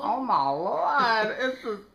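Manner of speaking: high, drawn-out, loud dismay; long swooping cry of horrified disbelief; scandalized shock. Acted. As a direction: wail it out, scandalized, stretching LORD. Shocked reaction to disgusting footage.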